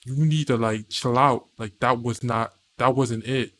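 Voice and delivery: low, restrained scolding; serious talking-to. Acted. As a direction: set them straight, keeping it low. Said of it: "have a talk with you".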